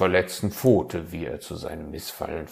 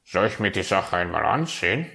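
raven voice; 5 dB louder, faster than usual. Acted. Raven offers help quickly.

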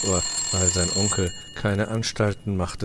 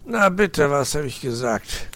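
high, louder told-you-so snarl; growl; 7 semitones higher, 5 dB louder than usual. Acted. Uncle fox grumbles to nephew, mock growl. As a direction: mutter it like a sour fox. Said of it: "knurrte Herr Fuchs".

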